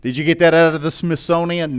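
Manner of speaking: put-on teasing voice of a young listener; lightly voiced cheeky youngster; mock young listener. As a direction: play a youngster ribbing the old preacher. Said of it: "you're looking and say".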